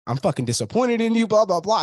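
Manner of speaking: high-pitched imitation of an angry dressing-down; mock scolding. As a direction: act out the telling-off you expected, pitched well up. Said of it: "I thought he was gonna scream at me".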